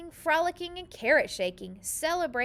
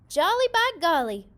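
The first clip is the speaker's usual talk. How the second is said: much louder, bouncy and exuberant; jolly exclamation; 6 semitones higher, 10 dB louder than usual. A narrator's reading. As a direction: kick up the words with delight. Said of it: "said with a kick".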